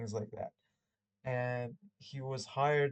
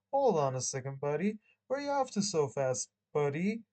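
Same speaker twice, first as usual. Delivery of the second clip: cop challenge; 2 semitones higher, 5 dB louder than usual. Acted. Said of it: "held a badge in my face and said".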